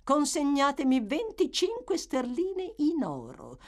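a calm woman naming her sum; calm matron. A narrator's reading. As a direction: state the price coolly. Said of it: "con la massima calma".

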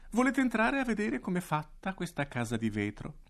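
invito acuto e allegro; allegramente. Acted. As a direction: attira i bambini nella trappola con allegria. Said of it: "invitando allegramente". (il direttore invita i bambini, allegro e acuto)

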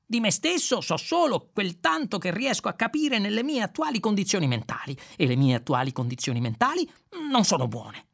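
stumble, then blurt it out; hesitant Zaphod. Acted.

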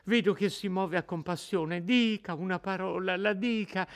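put-on a terrified girl begging her captor; frightened young woman pleading. Lucia supplica ancora. (Lucia disperata che supplica l'innominato, voce molto più alta)

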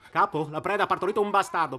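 loud, high mock announcement to the boss; mock report to boss. Partner mocking the hunter's report to the boss, loud sarcastic mimicry. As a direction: throw the boss's words back at him. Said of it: "perché non gliel'hai detto al tuo capo".

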